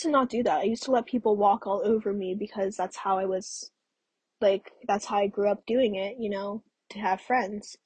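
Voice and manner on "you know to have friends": sipping tea while talking; while sipping a drink. Real, not acted. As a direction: talk around a sip of tea. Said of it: "I'm drinking my tea".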